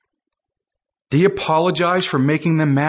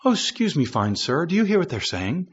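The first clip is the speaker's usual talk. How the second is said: soft, dainty mock-courteous ask; softer, prim imitation of a courteous question; mock politeness; 4 dB quieter than usual. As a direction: play the overly polite gentleman. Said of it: "They're not asking this question like".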